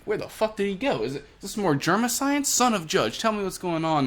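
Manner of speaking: a big brute lost and demanding answers; a hint of a bewildered Queen shouting after Sanji; baffled Queen. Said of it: "and Queen's like".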